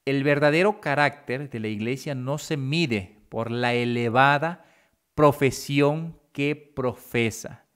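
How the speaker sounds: deliberate reading with pauses between phrases; measured, spaced-out quotation; slow reading. Real, not acted. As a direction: read it slowly so everyone understands. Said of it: "lo voy a leer despacio para que lo comprendamos".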